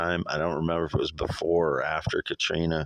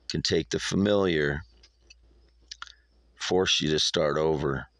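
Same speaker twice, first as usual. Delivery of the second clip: measured poem reading with long pauses; poem recitation. Acted. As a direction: recite it line by line, letting each phrase hang. Reads own poem aloud.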